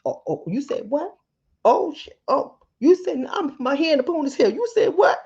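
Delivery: high, mock-outraged mom scolding; shrill disbelief at a back-talking child; mock outraged mother; scolding mama. Mother scolding her kids.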